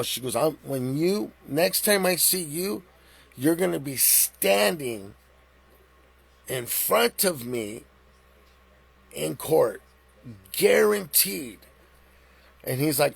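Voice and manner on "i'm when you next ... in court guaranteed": slow, deliberate, each phrase spaced out; slow warning. Retold or imitated. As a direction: promise him his day in court, slowly. Judge threatens cop with court.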